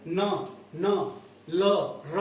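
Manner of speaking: न न ल र said one by one; alveolar sounds. Shown as a demonstration. Teacher demonstrating gum-ridge sounds to students, clearly articulated. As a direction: sound out न, ल, र slowly. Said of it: "आप बोल के देख सकते हैं".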